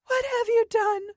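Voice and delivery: high, breathless accusing cry; panting horror. Acted. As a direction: Siobhan on her knees asking Dorothy, panting and high. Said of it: "and panted".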